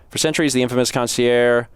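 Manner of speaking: concierge said as plain English concierge; mispronounced. Shown as a demonstration. Reading aloud, first guess at the French word. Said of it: "that's not concierge".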